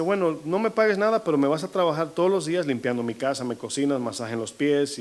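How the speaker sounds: a hint of a greedy creditor; mock demanding master. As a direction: play a petty boss listing chores. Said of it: "quizás usted dice".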